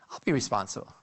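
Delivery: low-pitched experimenter's reply; acted authority figure. Experimenter reassuring the hesitant participant, low authoritative voice.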